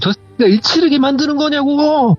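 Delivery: very high, strained tirade close to crying; hysterical screaming. Retold or imitated. Aunt cursing the spirits who misled her, imitated hysterical shriek. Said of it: "막 소리를 지르시는데".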